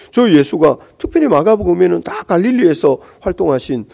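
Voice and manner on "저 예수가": ordinary talk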